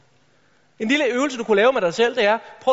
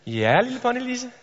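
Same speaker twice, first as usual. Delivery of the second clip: sweet teacher. Retold or imitated. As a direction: coo at the favourite pupil. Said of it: "kropssprog der signalerer".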